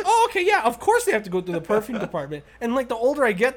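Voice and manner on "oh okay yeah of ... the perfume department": put-on naive kid voice. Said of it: "I was like".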